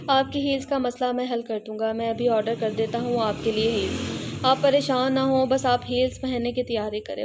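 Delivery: a hint of a smug grin in the voice; infuriating smile. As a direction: tease her with a maddening smile. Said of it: "वो दिल जला देने वाली मुस्कुराहट से बोला".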